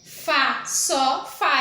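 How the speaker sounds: "Fá, só, fá" as separate, emphatic syllables; stressed syllable demo. Shown as a demonstration. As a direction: isolate each beat of "Fá, só, fá", firm on "fá". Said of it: "É a que eu falo com mais intensidade". ("Fá, só, fá", sílabas isoladas com ênfase no "fá")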